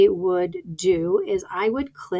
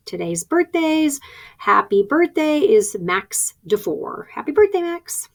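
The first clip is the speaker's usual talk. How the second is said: slow, lifted school announcer delivery; birthday announcement; 6 semitones higher than usual. Shown as a demonstration. Teacher demonstrates today's birthdays for the kids, birthday announcement. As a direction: announce it slowly, then a higher birthday greeting.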